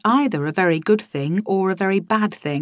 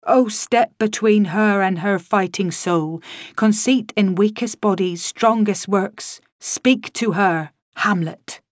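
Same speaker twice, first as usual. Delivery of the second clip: slow, declaiming stage ghost; lightly voiced Shakespearean ghost, slow and grand; theatrical ghost; slower than usual. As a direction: intone it like a hammy stage ghost. Ghost's Shakespeare lines acted.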